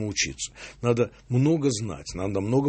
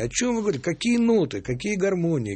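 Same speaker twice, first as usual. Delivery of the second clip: much higher-pitched, scoffing imitation; mock incredulous dismissal; 9 semitones higher than usual. Composer mimics Cage's followers, mock incredulous and dismissive. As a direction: wave away old-fashioned notions as absurd.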